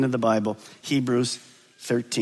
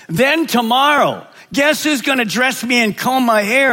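roaring tyrant king; 5 semitones higher than usual. Acted. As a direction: lay down the law like a tyrant. Husband announces he rules house.

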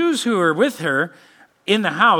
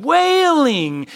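wailing; 8 semitones higher, 5 dB louder than usual. Shown as a demonstration. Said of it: "they would release They're weeping".

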